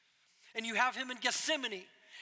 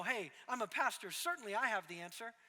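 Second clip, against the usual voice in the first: sarcastic pastor. Retold or imitated. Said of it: "It was meant to be, um, sarcastic".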